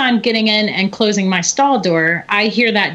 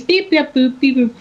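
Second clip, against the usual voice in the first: robot beeps; 5 semitones higher than usual. Retold or imitated. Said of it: "this little robot voice".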